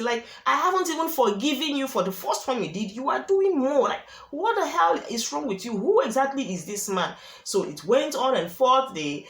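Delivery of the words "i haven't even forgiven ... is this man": retelling the wife's furious outburst, pitched high; mock-furious, higher, as if yelling at her husband; mad wife. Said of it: "and this woman was mad. She was crazy".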